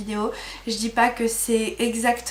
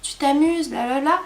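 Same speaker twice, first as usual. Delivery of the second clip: cheering voice; 5 semitones higher than usual. Retold or imitated. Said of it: "Il lui disait".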